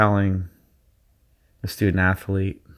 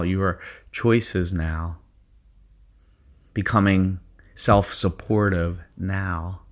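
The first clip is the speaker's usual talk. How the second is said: guided meditation. Acted. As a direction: ease them into their zone. Leads a guided visualization.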